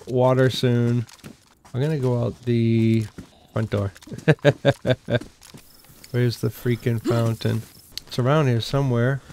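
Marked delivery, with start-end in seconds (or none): 4.1-5.2 quick staccato laugh; rapid chuckle. Real, not acted. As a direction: let out a rattling run of laughter. Machine-like laugh while hunting for fountain.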